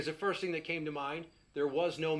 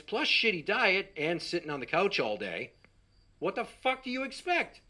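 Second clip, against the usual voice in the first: exasperated rant; 4 dB louder than usual. Retold or imitated. Ranting at mom, escalating.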